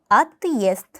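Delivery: отъезд drawn out slowly, stressed ending; slow model word. Shown as a demonstration. Teacher stretches отъезд slowly for learners. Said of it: "고유의 발음을 위해서".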